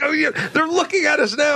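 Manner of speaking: mock nervous hurry. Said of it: "And I'm like".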